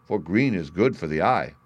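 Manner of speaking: ordinary delivery, nothing marked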